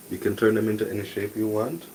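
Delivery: talking while chewing; mouth full. Real, not acted. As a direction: speak through a mouthful of food. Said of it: "Sorry, I'm eating it".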